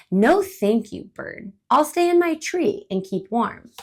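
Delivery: squirrel refuses bird, wants to stay warm; stubborn squirrel. Acted. Stubborn squirrel refusing.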